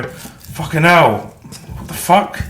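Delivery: high, slow, shocked outburst from the heart; a shocked heart crying out, high and slow; stunned heart. Retold or imitated. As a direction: let the heart gasp in disbelief, drawn out. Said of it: "It's making your heart go".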